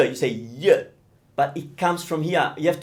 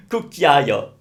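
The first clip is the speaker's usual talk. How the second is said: laughing; 3 semitones lower than usual. Real, not acted. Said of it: "yes, I like it".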